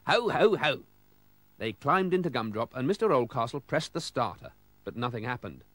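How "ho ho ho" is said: louder, higher Santa laugh; jolly ho ho ho. Acted. Father Christmas chuckling to Mister Oldcastle, louder jolly ho ho ho. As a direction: boom it out like Santa.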